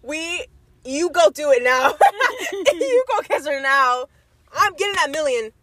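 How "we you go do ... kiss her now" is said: laughing through the words, slowed; giggling dare to go kiss her. Real, not acted. Laughing while teasing friend.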